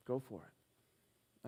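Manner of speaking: soft, slow nudge; gentle prompting. Retold or imitated. God nudging the man to speak, soft and slow. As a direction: voice a quiet, unhurried inner prompting.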